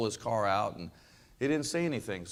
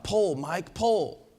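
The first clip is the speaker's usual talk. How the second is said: high-pitched farmer's holler, only slightly louder; acted scream; 7 semitones higher, 3 dB louder, much slower than usual. Old farmer hollering at his mule to pull, acted scream. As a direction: call out a command, pitch jumping up. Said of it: "he screamed out".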